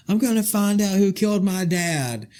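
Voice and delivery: high, loud mocking female voice; Stephanie McMahon impression. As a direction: mimic her dramatic threat. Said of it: "she's like".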